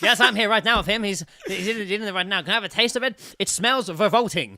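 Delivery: giggling mock reporter, high and loud; mock roving reporter laughing; laughing field reporter. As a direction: report live while cracking up.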